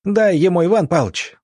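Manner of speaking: high, loud excited cheer. Acted. Cheering the doctor in the fight, excited shout. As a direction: egg him on in the heat of the fight. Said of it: "в азарте".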